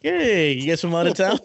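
high, hammed-up emcee greeting on the karaoke mic; goofy mic host voice. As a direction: play a silly announcer working the crowd. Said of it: "Like, being a fucking idiot".

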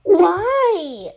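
high, loud drawn-out why; loud demanding question. Acted. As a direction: cry it out in disbelief. Acted startled question in story.

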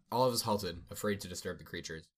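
measured storybook narration; story narration. A narrator's reading. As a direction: read a fantasy explorer's account aloud. Resumes reading the story.

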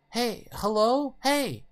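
high, loud, drawn-out call; shouting to hail. Acted. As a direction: call out to people some way off. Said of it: "Mother waves her hand and shouts".

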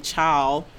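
put-on "chal" as one syllable, like child without the d; slang pronunciation of chile. Shown as a demonstration. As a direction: say "chal" to rhyme with mile. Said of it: "mad at us for saying".

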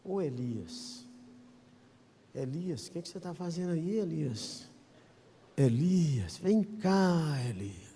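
quiet fatherly call; gentle calling. Retold or imitated. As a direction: coax him out kindly. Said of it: "falou assim".

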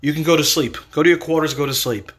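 mild, easygoing dismissal; smiling reassurance. Acted. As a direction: send the servants off calmly. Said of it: "he smiles at them".

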